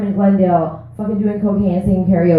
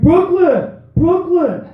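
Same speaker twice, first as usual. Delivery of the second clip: imitated heckle, pitched way up; heckling; 9 semitones higher, much slower than usual. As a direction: mimic a woman hollering from the crowd. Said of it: "getting heckled by the woman".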